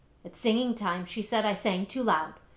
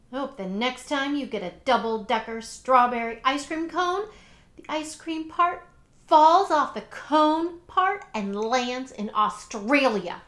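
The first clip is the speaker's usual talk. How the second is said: spiteful taunt; 3 semitones higher, 5 dB louder than usual. Acted. Child's spiteful wish to Paul.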